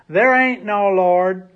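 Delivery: slow, loud, defiant yell; angry shout. Acted. Atheist neighbor yelling back at her, angry shout. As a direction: shout it back over the fence. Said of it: "he would shout".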